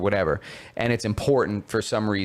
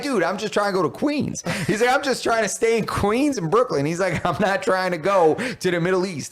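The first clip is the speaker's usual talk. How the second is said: mock exasperated; 5 semitones higher than usual.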